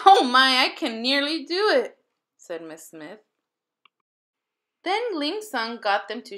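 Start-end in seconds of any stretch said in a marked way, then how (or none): 0.1-2.0 loud, laughing exclamation; delighted teacher. A narrator's reading. Miss Smith trying chopsticks in front of the class, delighted. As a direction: gasp it out thrilled.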